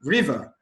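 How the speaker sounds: "River" with weight on "Ri"; stress on first syllable. Shown as a demonstration. Teacher showing the different option, "River" stressed on "Ri". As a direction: lean on "Ri" in "River". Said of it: "on the first syllable".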